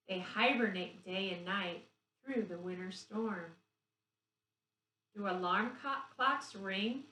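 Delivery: put-on slow, sing-song reading of a kids' rhyme; rhyme read to children. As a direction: read the verse gently to little ones. Reads the pose rhyme aloud.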